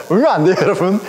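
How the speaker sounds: chuckling through the words; laughing. Real, not acted. Preacher teasing the congregation, laughing. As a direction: say it while still laughing. Joking about the scary carol.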